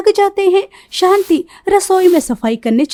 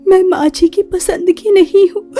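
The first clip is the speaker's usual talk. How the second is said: choking up on the words; hurt daughter-in-law holding back tears; tearful; 2 semitones higher than usual. Acted. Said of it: "उसकी आंखों में आंसू भर आते हैं". (आँसू भरी आवाज़ में)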